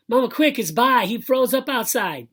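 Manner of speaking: put-on high, loud kid calling for help; high-pitched urgent yell; urgent alarm. A narrator's reading. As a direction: burst in shouting the emergency. Narrator acts kid raising alarm.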